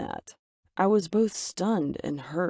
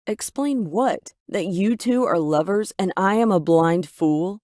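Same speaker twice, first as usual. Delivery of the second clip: angry shout; 2 semitones higher, 5 dB louder than usual. Acted. Daughter shouting at mom over the supposed affair, loud. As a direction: hurl it at her, betrayed and furious. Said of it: "I shouted angrily".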